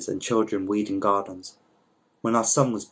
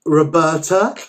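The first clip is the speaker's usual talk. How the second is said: surprised recognition; 7 semitones higher, 9 dB louder, slower than usual. Acted. Recognising an old friend.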